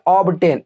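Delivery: "ऑब्टेन" with the b sounded before t; b pronounced. Shown as a demonstration. Teacher showing an exception, "ऑब्टेन" with audible b. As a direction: say "ऑब्टेन" as ob-tain, keeping the b. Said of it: "यहाँ पे बी silent नहीं करेंगे".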